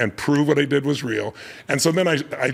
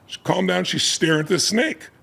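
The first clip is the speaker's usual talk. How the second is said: usual speaking voice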